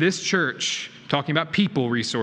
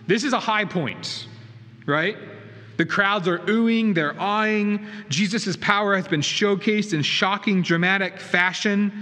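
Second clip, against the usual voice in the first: higher, lively preaching about the amazed crowds; excited build-up; 6 semitones higher than usual. Acted. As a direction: paint the crowd's wonder with rising energy.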